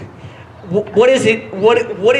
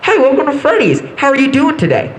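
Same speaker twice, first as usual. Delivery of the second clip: cashier voice; 5 semitones higher, 4 dB louder than usual. Retold or imitated. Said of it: "She goes".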